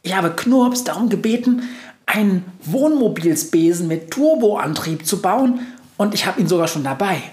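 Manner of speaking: high proud mouse voice. Acted. Mouse boasting to the witch, high and proud. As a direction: boast like a tiny reporter.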